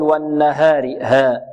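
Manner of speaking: والنهار with haa leaning toward hee; wrong fronted vowel in والنهار; mistaken taqlil. Shown as a demonstration. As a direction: tilt the aa in ها toward e. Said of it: "لا، لا، لا نقول".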